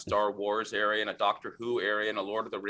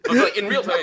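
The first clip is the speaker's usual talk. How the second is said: laughing; 10 semitones higher, 11 dB louder than usual. Real, not acted. Laughing at the memory.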